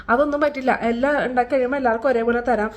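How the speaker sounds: retold quarrel. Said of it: "ഭയങ്കര ബഹളം".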